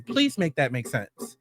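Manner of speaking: slow weary disbelief; slow exasperated plea. Real, not acted. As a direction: spell it out slowly like you're begging for logic.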